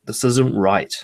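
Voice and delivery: slowed, halting dawning doubt; hesitant, drawn-out second thoughts; slow realization. Retold or imitated. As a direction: let the doubt creep in slowly. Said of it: "that moment of".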